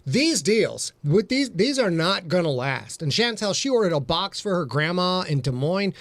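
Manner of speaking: lilting home-shopping presenter patter; hammed-up shopping channel pitch; QVC host. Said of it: "welcome to the Q V C channel".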